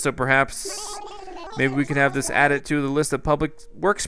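lightly voiced, eager museum director pleading; a hint of a fussy owl making his case; owl curator's lines. Museum director asking the mayor for funds, lightly voiced and earnest. Reads museum owl's dialogue.

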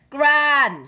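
high, loud reproachful call; shouting. A narrator's reading. Mom to Gran with the squirter, shouting. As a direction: shout the name as a warning. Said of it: "shouted Mom".

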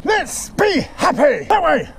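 hammed-up pep talk to himself; mock cheerful rallying. Tired hiker cheering himself on, mock upbeat chant.

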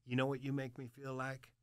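low, soft, lightly voiced old man; quietly imitating a hard old-timer; old military man. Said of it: "This old hard, like, military cat".

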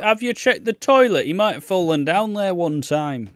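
high, loud daft helper; mocking busybody. Second host mocks searchers, high and loud. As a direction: ham up the silly idea. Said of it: "And it's like".

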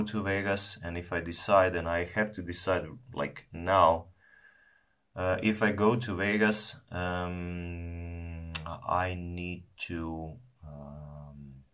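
talking around a clenched stem; speaking from side of mouth; cigar holder in mouth. Real, not acted. Seen 2: Long cigar holder stem held at mouth corner while speaking.

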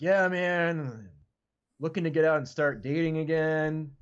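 lightly imitated casual dude talk; a hint of an average-guy voice. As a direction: play a regular guy chatting about his life. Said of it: "tell by the way he talk, like, he's just an average dude".

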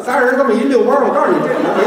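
Beijing street-talk delivery; Beijing dialect. Acted. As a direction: put it into casual Beijing speech. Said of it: "改成北京话更不行了".

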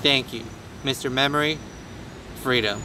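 put-on American accent. Streamer thanking a viewer who praised it, low put-on American accent. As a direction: keep up the mock American accent. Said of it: "it's a decent American accent".

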